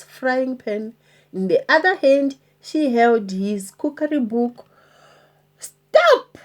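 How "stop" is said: very high loud call. Acted. Pirate chief halting the plank walk, called out. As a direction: halt everyone. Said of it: "called Handkerchief".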